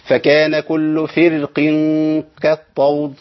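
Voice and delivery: فرق recited slowly with a thin, light ra. Shown as a demonstration. Teacher repeats the tarqiq reading for students. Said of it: "ده الترقيق".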